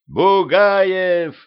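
high, loud joyful yell; loud yell of recognition. A narrator's reading. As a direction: shout the name across to a friend. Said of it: "заорал Петрович".

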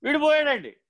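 high, insistent mock lament; acted mourner's wail. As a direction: play the weeper protesting on a high pitch. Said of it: "ఎందుకు ఏడుస్తున్నావురా నువ్వు". (ఏడుస్తున్నట్టు నటిస్తూ హెచ్చు స్వరంలో)

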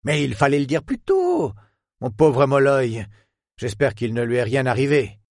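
a hint of worried old friend; lightly voiced old professor.

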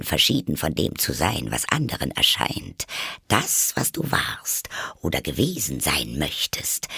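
a hint of a smug duchess; lightly voiced Duchess. Duchess convoluted moral, low.

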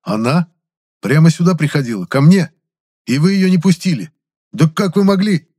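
rising outraged, high and loud; indignant outburst at the ghosts. A narrator's reading.

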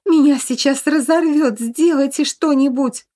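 high, strained desperate plea. A narrator's reading. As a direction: beg them to act now. Ghost being torn apart. (отчаянная мольба, высоко)

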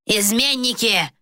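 mock yell of betrayal. A narrator's reading. King yelling at traitors, mild yell. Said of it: "вопил тот".

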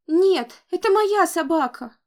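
put-on high, loud childish wail; crying child protest. A narrator's reading. Little boy wails that it's his dog. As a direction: insist like a sobbing toddler.

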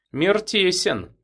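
slow musing. A narrator's reading. Captain muses.

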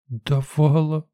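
put-on high, slow, small child's voice; little girl. Little girl answering the narrator, timid. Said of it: "кивнула девчушка".

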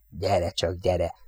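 soft, coaxing, rushed; coaxing gabble. Acted. Jack softly coaxes the enemy fighter closer. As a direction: lure the fighter in under his breath. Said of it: "hadarta hívogatóan".

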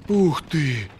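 high-pitched gasp of wonder; exhaled amazement. A narrator's reading. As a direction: breathe it out in awe. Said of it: "выдохнул длинноногий". (восхищённый высокий выдох)

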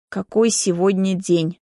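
usual speaking voice

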